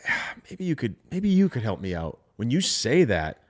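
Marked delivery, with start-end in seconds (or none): 0.1-2.2 hesitant soft ask. Shown as a demonstration. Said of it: "if you lead the call with".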